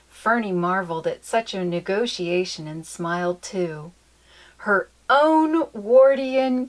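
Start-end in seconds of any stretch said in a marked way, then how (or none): 4.6-6.7 wonder. A narrator's reading. Fernie's delight, story's end.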